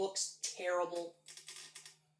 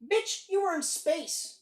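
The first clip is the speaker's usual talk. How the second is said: slow, higher, drawn-out Nick Fury quote; mock Nick Fury line; 9 semitones higher, 4 dB louder, slower than usual. Fan retelling a movie line, slow mock Nick Fury. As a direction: lightly imitate Nick Fury, slow and pointed. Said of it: "when Nick Fury goes".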